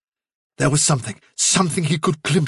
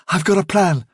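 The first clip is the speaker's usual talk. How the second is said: Hazel voice; 5 semitones higher than usual. Acted.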